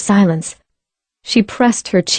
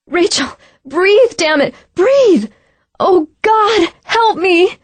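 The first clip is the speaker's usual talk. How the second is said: crying plea; 11 semitones higher, slower than usual. Acted. CPR, crying out.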